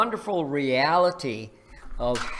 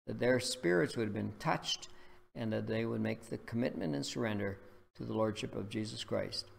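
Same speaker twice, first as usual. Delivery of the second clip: prayer. Acted. Preacher praying over listeners, reverent. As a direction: pray it reverently.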